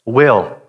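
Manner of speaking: "Will" said alone, heavy and falling; stress on will. Shown as a demonstration. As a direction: lean on "Will" with a firm fall. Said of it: "the word will".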